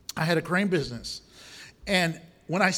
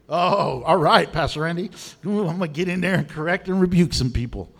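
gleeful eagerness; 5 dB louder than usual. Retold or imitated. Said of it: "voicing eager correcting Christian".

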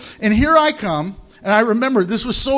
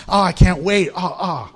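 mock eager kid. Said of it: "that's eagerly waiting".

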